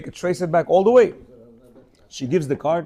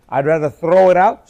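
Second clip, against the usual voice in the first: mock firm refusal; 7 dB louder than usual. Refusing wife's suggestion.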